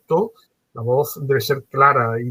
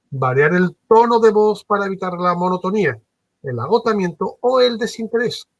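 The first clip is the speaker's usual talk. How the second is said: lively pitch, rising higher at the end; varied tone; 5 semitones higher than usual. Shown as a demonstration. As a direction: swing the pitch up and down to keep it lively. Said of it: "Fijaros lo que acabo de decir".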